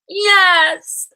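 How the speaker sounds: high, loud bawling yes; bawled yes. A narrator's reading. Girl bawling yes at the teacher, high and loud. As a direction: bawl it out at full voice. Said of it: "I bawled".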